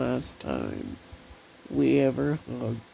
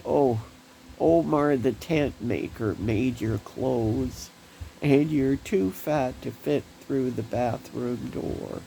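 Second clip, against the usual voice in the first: mock teasing big brother. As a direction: rib her like a cheeky big brother. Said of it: "he'd say to me".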